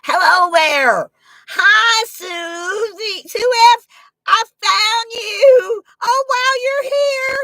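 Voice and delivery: very high, loud squealing welcome; gushing hello to Sue in chat; overjoyed greeting. Real, not acted. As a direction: squeal with delight at a friend arriving. Greeting first chat arrivals.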